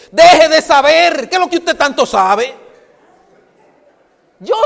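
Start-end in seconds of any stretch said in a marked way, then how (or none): 0.1-2.5 firm rebuke as Jesus. Acted. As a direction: drag each word out like a stern master. Jesus rebuking Martha's knowing.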